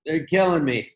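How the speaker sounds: hiccup breaking the line; hiccuping mid-sentence. Real, not acted. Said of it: "pardon the hiccups".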